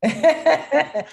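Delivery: high, loud baffled outcry; mock bewildered. Host mocking her glitchy tech, loud baffled outcry. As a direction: throw up your hands at the tech. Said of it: "technology stuff be like".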